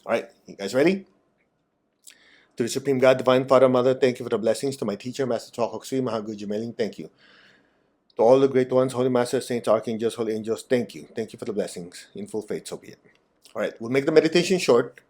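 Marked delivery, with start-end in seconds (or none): 2.6-13.0 invocation prayer. Acted. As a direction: pray it in growing stillness.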